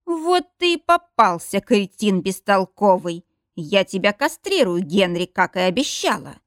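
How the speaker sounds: mock-furious wife screaming at a cheating husband; furious yelling. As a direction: roar it at him, triumphant and enraged. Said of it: "орёт знакомый голос Донны Джонс".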